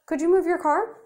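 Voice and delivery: exaggerated politeness toward a stranger; overly polite request. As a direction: put on your most courteous voice. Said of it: "I said".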